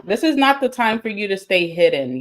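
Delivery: talking around a piece of gum; gum-chewing delivery. Real, not acted. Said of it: "I have gum in my mouth".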